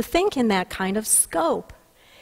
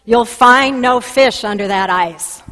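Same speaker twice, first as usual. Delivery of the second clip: a booming call from nowhere, louder; 6 dB louder than usual. Retold or imitated. Heard by the minister drilling on the ice, a loud booming voice. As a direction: boom it out like a voice from above. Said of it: "he hears a loud booming voice that says".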